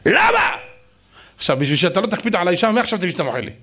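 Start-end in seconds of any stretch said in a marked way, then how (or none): 0.1-0.6 incredulous why. Acted. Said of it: "ואתה תגיד לי".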